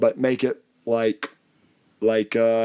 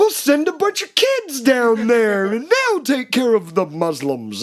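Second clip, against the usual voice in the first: mocking high voice; 11 semitones higher, 4 dB louder than usual. Mocking church leaders' quote.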